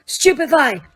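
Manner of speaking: high yelled stun spell. Acted. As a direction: fire the spell off with a yell. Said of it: "took aim at Snape's back and yelled".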